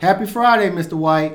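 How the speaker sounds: bright upbeat hello; cheerful greeting. Shown as a demonstration. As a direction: sing out the greeting. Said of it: "repeats greeting plainly".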